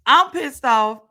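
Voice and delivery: loud opening, then a heated repeat; real anger. Real, not acted. Telling off the producer over Destiny, heated anger. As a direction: let the real irritation show. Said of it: "You can hear it in my voice".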